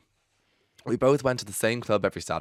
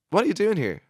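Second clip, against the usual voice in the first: much higher, louder startled question; shocked; 12 semitones higher, 5 dB louder than usual. Retold or imitated. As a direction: caught off guard, blurting it out. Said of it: "I said in shock".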